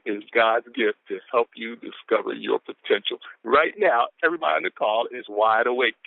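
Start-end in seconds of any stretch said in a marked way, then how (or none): 0.0-3.2 slow, weighty delivery of the quote; deliberate, drawn-out reading; real slow reading. Shown as a demonstration. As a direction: stretch it out so it sinks in. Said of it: "I can read this real slow".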